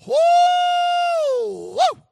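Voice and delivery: high, loud woods holler; hollering whoo. Retold or imitated. Daddy hollering in the cane thicket. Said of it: "I heard him go".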